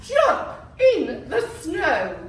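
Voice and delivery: drawn-out giggly reading; slow and laughing. Shown as a demonstration. Teacher modelling a slow laughing reading. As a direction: stretch each word with a laugh. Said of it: "say it like this?".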